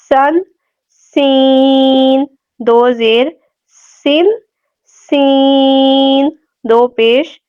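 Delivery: سین held long with a thin, hissing s; whistled s. Shown as a demonstration. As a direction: recite سن slowly with a clear whistle. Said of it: "سیٹی کی آواز آئے گی". (سین میں سیٹی کی آواز)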